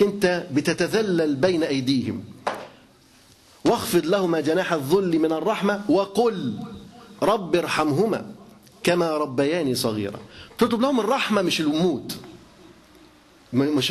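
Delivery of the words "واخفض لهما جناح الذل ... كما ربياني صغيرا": slow, measured chanting of the verse; Quran recitation. Acted. Preacher reciting the verse to his listeners, slow solemn recitation. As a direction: recite it with reverence, drawing out the words.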